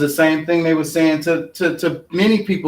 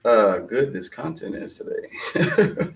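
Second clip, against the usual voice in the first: laughing; 4 semitones lower, 5 dB quieter, slower than usual. Real, not acted. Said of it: "laughs at self".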